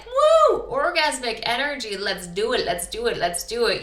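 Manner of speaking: high whoop then eager chant; playful burst of excitement; excited whoop. Retold or imitated. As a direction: hype yourself up, mock-giddy. Imitating high-energy good days.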